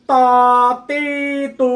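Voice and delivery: ত তি তু said thick, full-mouthed; heavy emphatic ত তি তু sounds. Shown as a demonstration. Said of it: "এভাবে মোটা করে উচ্চারণ করতে হবে". (মোটা করে উচ্চারণ ত তি তু)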